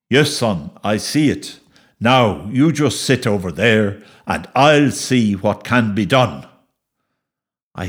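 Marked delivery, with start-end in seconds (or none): 0.1-6.5 calm father. Acted. Father calms son.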